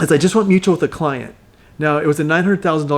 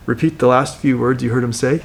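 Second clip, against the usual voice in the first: lower, curious question echoing the words back; curious mirroring tone; 4 semitones lower than usual. Shown as a demonstration. Coach demos mirroring a client's words with curious tone. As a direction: repeat it back as a gently puzzled question. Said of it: "with a little bit of a curious tone".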